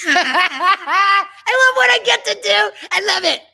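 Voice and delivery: laughing joyfully. Real, not acted. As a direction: laugh as you say it. Laughing with joy.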